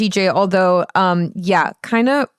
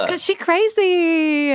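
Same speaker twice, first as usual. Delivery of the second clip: sassy joke voice; 10 semitones higher, slower than usual. Acted. Joking echo, laughing.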